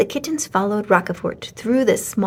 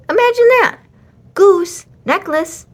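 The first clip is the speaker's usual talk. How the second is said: much higher, louder giggly horse voice; a horse bursting with the funny news; amused horse; 10 semitones higher, 7 dB louder than usual. A narrator's reading. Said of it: "said Frou Frou".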